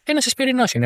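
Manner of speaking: "Ένας" hit high, then falling; stress on ένας. Real, not acted. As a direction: lift "Ένας" sharply above the rest. Stressing "just a vespers. (έμφαση στο «Ένας», ψηλά και πέφτει)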